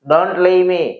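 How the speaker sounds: blunt commanding tone; curt order. Shown as a demonstration. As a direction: order them to stay. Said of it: "जैसे कि order दे रहे हो".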